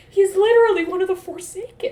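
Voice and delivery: loud, high exasperation; exasperated. Retold or imitated. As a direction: spell it out to an idiot. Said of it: "And Asmodean's like".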